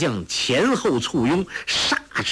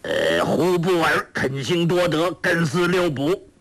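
higher, chant-like reading of gibberish; reciting scripture; 5 semitones higher than usual. A narrator's reading. Villain reading garbled scripture aloud, in a reciting drone. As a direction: sound out strange syllables from a page. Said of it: "照着经文念道".

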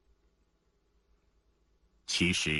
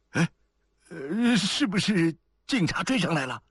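high, hesitant nervous whisper-free voice; nervous questioning; 10 semitones higher than usual. A narrator's reading. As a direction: ask an accomplice in high-pitched alarm. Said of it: "紧张地问同伙". (紧张地高声问同伙)

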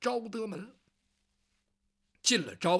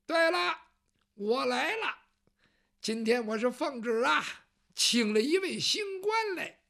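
pleased eunuch; 4 semitones higher than usual. Acted. Eunuch answers guard proudly.

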